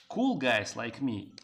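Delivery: slow, loud mock-cool boast; mock cool guy. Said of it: "I just wanted to be cool".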